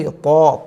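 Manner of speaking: तो as a full, dark emphatic t; tongue forward, say तो with a heavy rounded vowel; heavy, thick Ta. Shown as a demonstration. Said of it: "तो मोटा पढ़ा जाएगा". (तो (तॉ) मोटा पढ़कर)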